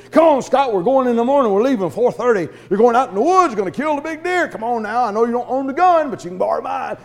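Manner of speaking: eager, pushy invite; pushy hunting buddy. Retold or imitated. Brother pleading with the preacher, eager and pushy. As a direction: talk him into the hunt.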